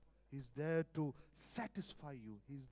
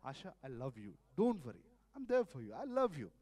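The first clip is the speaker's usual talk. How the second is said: placating wife; 3 semitones lower, 4 dB louder than usual. Retold or imitated. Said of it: "avoid the argument".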